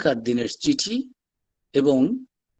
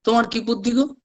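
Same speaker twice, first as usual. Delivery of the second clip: mild imitated scolding; 4 semitones higher than usual. Master telling others not to force Naren, mild acted scolding. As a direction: retell a chiding lightly, pitch lifted. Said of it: "ঠাকুর তাকে ধমক দিয়ে বলছেন".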